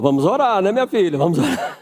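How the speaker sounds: mild weary father, half laughing; deep breath, resigned father. Retold or imitated. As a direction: sigh it out as a dad dodging a purchase. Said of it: "Eu respiro fundo e falo".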